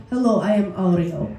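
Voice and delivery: a low-pitched deadpan introduction; imitating fellow comedian. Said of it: "he was like".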